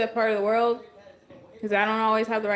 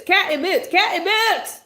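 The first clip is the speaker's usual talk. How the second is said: Cat in Boots rising to a loud high yell; building exasperated yell; 7 semitones higher, 5 dB louder than usual. Real, not acted. Mom yelling the title over her teasing son, exasperated. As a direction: insist louder each time.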